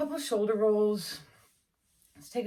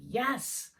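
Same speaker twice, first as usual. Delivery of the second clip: higher-pitched mock cheer of a goal reached; pretend triumph; 5 semitones higher, slower than usual. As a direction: play your future self celebrating a win. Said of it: "And you're like".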